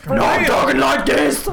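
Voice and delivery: high, slow put-on lady voice; fine lady voice. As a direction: talk like a fine lady, slowly. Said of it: "His fine lady voice".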